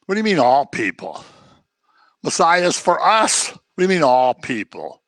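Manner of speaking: mock-indignant protest, pitch jumping up midway; indignant objection. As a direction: object as an affronted listener. Acts indignant Jews objecting.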